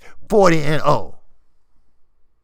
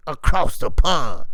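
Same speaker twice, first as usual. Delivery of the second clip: mocking quote; 2 semitones lower than usual. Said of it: "Americans talking about across the pond".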